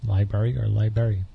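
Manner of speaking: "library" first with both r's, then as lie-berry; two pronunciations of library. Shown as a demonstration. Host offering a choice of words, two pronunciations contrasted.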